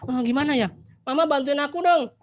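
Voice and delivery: put-on childish pleading. Anak minta bantuan mama.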